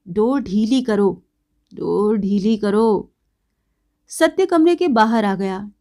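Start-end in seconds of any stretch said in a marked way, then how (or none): 0.1-3.1 tipsy heckling yell, drawn out; drunken shout. Acted. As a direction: holler it out like a drunk. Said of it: "शराबी सुनते ही चिल्ला उठा".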